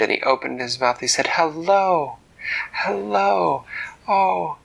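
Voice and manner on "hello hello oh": high, loud eager hellos; eager calling out. Acted. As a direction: call out excitedly to the mermaid. Dak calls out eagerly.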